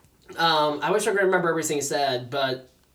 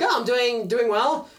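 higher, easy, composed reply; calm, firm; 4 semitones higher, slower than usual. Retold or imitated. Shoe owner answering the anxious man, calm and firm. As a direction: imitate his unruffled, pleasant answer. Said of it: "in this very calm and firm voice".

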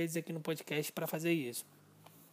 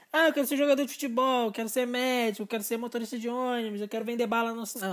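put-on child answering; 4 semitones higher than usual. Child answering, acted quote.

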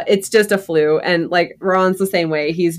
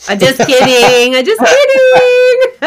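high squealing laugh through words; 11 semitones higher, 8 dB louder, slower than usual. Acted. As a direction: giggle it out, high and slow. Joking about PVR, laughing.

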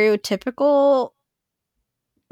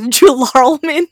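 put-on child's mispronunciation; 4 semitones higher, 9 dB louder, slower than usual. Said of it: "And she goes".

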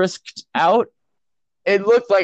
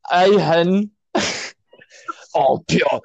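put-on Glasgow accent. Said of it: "Just just channel Limmy".

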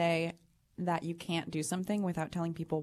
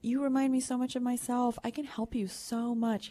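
lightly voiced gushing designer; 5 semitones higher than usual. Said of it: "And she said".

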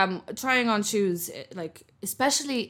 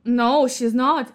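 ordinary delivery

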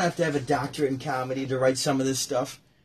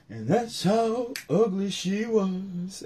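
slow, drawn-out punchline; spoken punchline; 5 semitones higher, much slower than usual. Retold or imitated. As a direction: lay the punchline down slowly. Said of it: "And then he goes".

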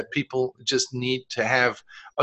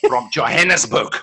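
put-on South African accent. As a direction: own South African accent, exaggerated with a laugh. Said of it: "If it's from South Africa, you'll go".

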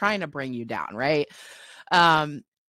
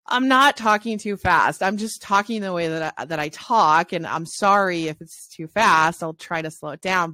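louder, emphatic self-justifying comeback; defensive retort; 6 dB louder than usual. Acted. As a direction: protest the criticism, acting it out. Acts out retort to critics.

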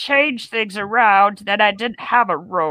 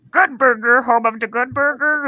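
tentative, higher attempt at the Good Burger greeter; 4 semitones higher than usual. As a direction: feel out the character voice, pitched up. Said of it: "can I hear your Good Burger voice?".

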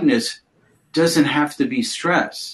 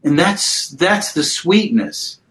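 tender reassurance; slower than usual. Real, not acted. Comforting a grieving mother.

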